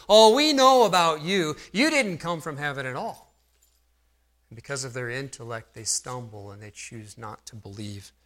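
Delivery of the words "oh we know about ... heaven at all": louder, higher mocking know-it-all voice; smug crowd. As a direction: toss it off like a scoffer.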